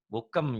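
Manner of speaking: bukem with a Sundanese "eu" before the M; Sundanese eu vowel. Shown as a demonstration. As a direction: say bukem as "boo-keum". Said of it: "jadi ada E-nya kayak orang Sunda".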